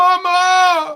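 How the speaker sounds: loud, high yelling.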